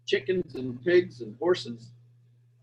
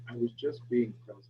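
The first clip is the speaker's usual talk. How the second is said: ordinary talk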